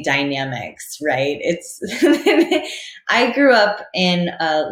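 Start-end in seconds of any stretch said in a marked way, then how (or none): 1.8-3.0 high, loud burst of laughter; real laugh. Real, not acted. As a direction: laugh along with the host. Laughs with the host.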